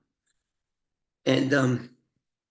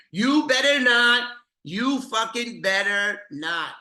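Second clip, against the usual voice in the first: higher, louder furious threat, slow on the key words; mock gangster rage; 7 semitones higher, 3 dB louder, slower than usual. Mad Dog threatening Brian to keep his name out, voiced as higher angry rage. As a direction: spit it out like an enraged mobster. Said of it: "he goes".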